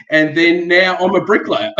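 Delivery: chuckling out the punchline; a real laugh breaking into the words; laughing through it. Real, not acted. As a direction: say it while laughing at yourself. Jokey self-deprecating punchline.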